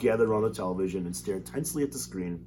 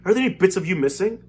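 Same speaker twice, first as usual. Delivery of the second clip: anxious mother; 9 semitones higher, 8 dB louder than usual. Acted. Anxious mother calling son.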